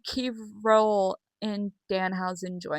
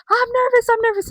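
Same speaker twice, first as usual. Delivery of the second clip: mock nervous voice; 13 semitones higher, 5 dB louder than usual. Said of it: "he's just like".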